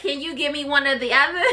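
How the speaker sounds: fast, laughing mock plea. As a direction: beg through laughter. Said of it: "It's like".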